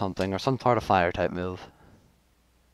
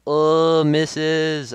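exclamation; 5 semitones higher, 7 dB louder than usual. Real, not acted. Another miss seen.

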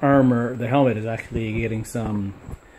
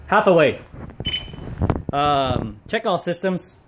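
voice command; 5 semitones higher than usual. Real, not acted. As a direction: call the command out clearly. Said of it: "get the, the voice command going".

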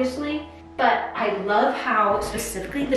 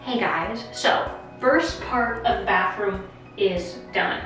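talking in an empty echoing bathroom; echoey bathroom. Real, not acted. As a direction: voice bouncing off bare tiled walls. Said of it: "it is so echoey in here".

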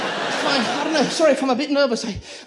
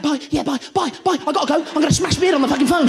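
frantic goodbye. Pretend. Goodbye on phone, head closer.

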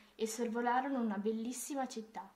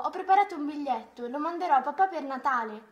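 annuncio entusiasta a gran voce; più forte e più acuto, con slancio; grido di bambina; 5 semitones higher, 10 dB louder than usual. A narrator's reading. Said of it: "gridò". (gridato con entusiasmo)

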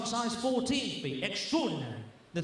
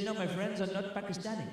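put-on Pakistani accent; 4 dB quieter than usual. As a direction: deny it in a mock Pakistani accent. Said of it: "why are you talking with a Pakistani accent".

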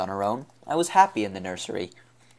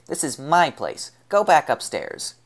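put-on slow, loud, high little girl's order; stern child; 6 semitones higher, 4 dB louder than usual. A narrator's reading. Little girl orders gang leader upstairs, slow loud command. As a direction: plant your feet and tell them off.

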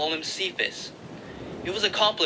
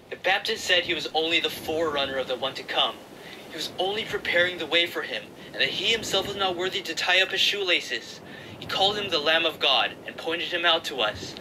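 lightly voiced excited younger brother, higher; eager Andrew; 4 semitones higher than usual. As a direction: urge your brother, breathless with news. Andrew's voice in the story.

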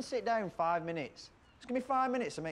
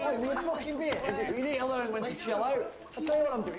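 higher, raised telling-off; angry scolding; 5 semitones higher than usual. Acted. Woody scolding Gadget for picking on Sean, angry. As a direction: tell him off hard.

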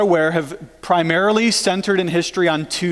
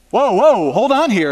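alarmed objection; 3 semitones higher than usual. Acted. John the Baptist stopping Jesus at the water, alarmed objection. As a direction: cut in to stop someone.

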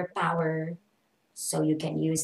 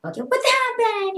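high, loud dramatic cry; mock shock in English; 6 dB louder than usual. Shown as a demonstration. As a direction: ham up the surprise. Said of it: "English tayo dun". (OA na gulat sa Ingles)

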